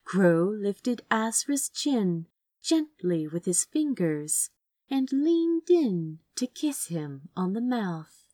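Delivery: usual speaking voice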